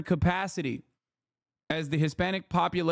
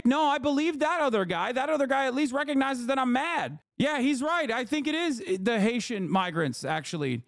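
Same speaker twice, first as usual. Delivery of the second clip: much higher, shouted mock conviction; mock shouting voter; 9 semitones higher than usual. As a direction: yell it like a voter who finally feels heard. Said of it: "turn around and be like".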